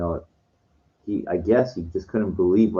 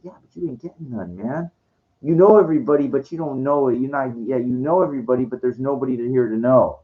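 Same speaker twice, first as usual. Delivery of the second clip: higher-pitched, insistent retort; heated comeback; 3 semitones higher, 3 dB louder than usual. Retold or imitated. Retelling his comeback to the older guy, heated retort. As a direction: argue back, pitched up and emphatic.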